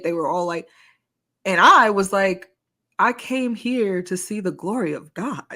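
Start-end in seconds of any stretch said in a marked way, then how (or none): 3.0-5.4 so serious. Retold or imitated. Friend insisting on climbing higher to the waterfall, so serious. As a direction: declare it in dead earnest, retelling yourself. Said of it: "I'm so serious".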